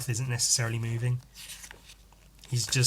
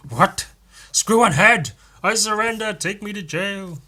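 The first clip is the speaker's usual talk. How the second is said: much higher, louder squealing surrender; panicked villain; 9 semitones higher, 7 dB louder than usual. Acted. Villain caught by the hero, squealing surrender. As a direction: beg for mercy in a hammy panic.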